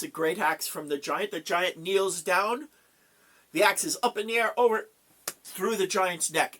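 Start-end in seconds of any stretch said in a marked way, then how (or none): 3.5-6.6 dramatic build. A narrator's reading. Narrating the axe swing dramatically.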